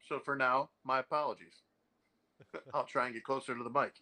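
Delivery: muffled, boxy distant mic sound; like talking inside a fishbowl. Real, not acted. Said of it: "he won't sound like he's in a fishbowl".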